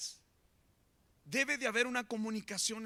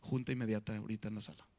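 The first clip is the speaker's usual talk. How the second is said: wife calling a meeting; 9 semitones lower, 5 dB quieter, much faster than usual. Retold or imitated. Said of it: "viene la esposa y dice".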